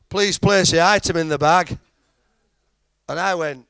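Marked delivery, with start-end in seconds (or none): 0.1-1.8 insistent machine voice. Retold or imitated.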